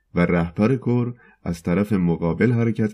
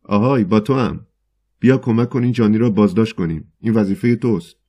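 breathless call; 3 semitones higher, 5 dB louder than usual. Acted. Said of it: "نفس زنان به رهبر کور کلیسا رو کرد".

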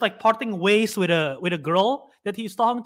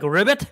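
mock frog ribbit; 3 dB louder than usual. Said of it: "if the frog is like".

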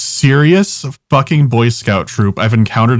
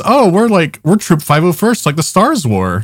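mock proud troop voice; 6 semitones higher than usual. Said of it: "And the new one is".

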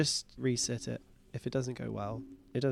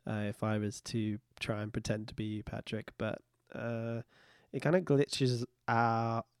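slightly wrong copied voice; 3 semitones lower, 4 dB quieter than usual. Retold or imitated. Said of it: "I can really mimic your voice really, really well".

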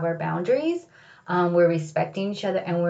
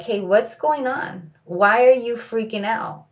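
calm self-talk; 3 semitones higher, 4 dB louder than usual. Retold or imitated. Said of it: "have a session with myself".

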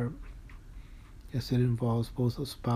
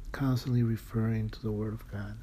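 choked-up whisper. Real, not acted. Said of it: "I'm choking up again".

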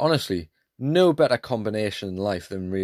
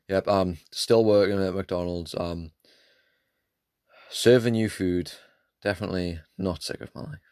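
lightly acted weary worker, subdued; a touch of resigned, going-through-the-motions service; fed-up McDonald's worker; 3 semitones lower than usual. McDonald's worker serving food while sick of life, mildly fed up. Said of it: "cashiers are sick of their life".

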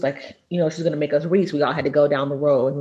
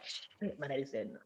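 put-on scared kids; 4 semitones lower, 17 dB quieter than usual. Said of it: "They be like".

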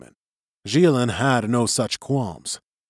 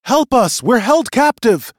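very high, loud plea; tiny captive crying out for rescue; shrill voice; 12 semitones higher, 8 dB louder than usual. A narrator's reading. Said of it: "heard the voice again".

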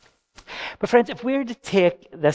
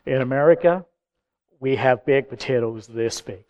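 mock American boast; 2 semitones lower than usual. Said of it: "This American guy just went".

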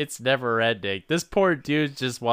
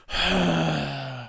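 dog sigh; 3 semitones higher than usual. Retold or imitated. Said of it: "and then she just".

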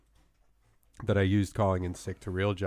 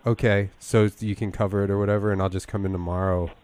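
fake sick voice. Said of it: "my fake sick voice".

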